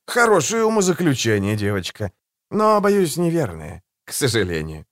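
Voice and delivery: calm, silky and a little mocking; suave assassin voice. Голос Жемчуга. (учтивый, вкрадчивый голос убийцы)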